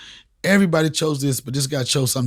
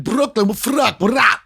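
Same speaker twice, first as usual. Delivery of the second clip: hyped; 7 semitones higher, 4 dB louder than usual. Retold or imitated. Hyped Brooklyn shout at promoter.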